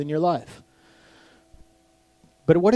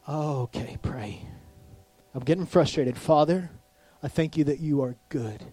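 soft, lower prayer murmur; hushed personal prayer; quiet prayer; 3 semitones lower, 5 dB quieter than usual. Shown as a demonstration. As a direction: pray under your breath.

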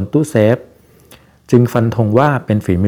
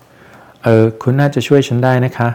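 slow, mildly hoarse character voice; hoarse, dry voice; 3 semitones higher, much slower than usual. Acted. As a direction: play a slightly husky woman asking for help. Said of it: "หญิงสาวพูดด้วยน้ำเสียงแหบแห้งไม่ชวนฟัง".

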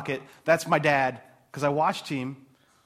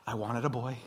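mock lament; 3 semitones lower, 5 dB quieter than usual. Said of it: "I heard her say yesterday".

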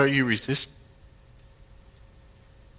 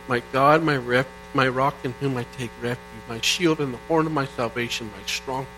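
scripture reading. Acted. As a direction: let the praise sink into a hush. Reads Psalm eighteen aloud.

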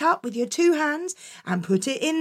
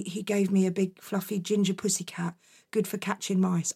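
put-on timid boy; 5 semitones lower, 7 dB quieter than usual. Jack answering timidly.

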